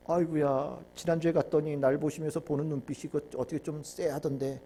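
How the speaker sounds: low, soft, acted reluctance; reluctant grumbling. Preacher playing a churchgoer dreading God's look, reluctant grumbling. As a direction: grumble quietly to yourself, backing out.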